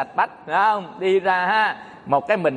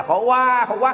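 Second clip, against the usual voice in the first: mock baby wail, slightly higher; imitated newborn cry; 4 semitones higher than usual. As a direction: lightly mimic a newborn's crying. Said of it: "Mới mở mắt ra ông khóc". (giả tiếng em bé khóc)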